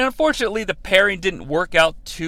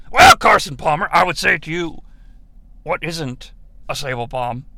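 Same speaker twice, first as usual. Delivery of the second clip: hammed-up boardroom showman; mock boss pitch. Acts boss answering network chairman.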